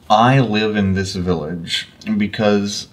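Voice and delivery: NPC voice. Acted. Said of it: "this dumbass voice I've constructed".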